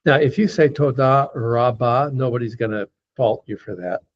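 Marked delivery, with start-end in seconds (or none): 0.7-2.1 toda rabba with an American R; American accent. Shown as a demonstration. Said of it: "there's an American trying to say".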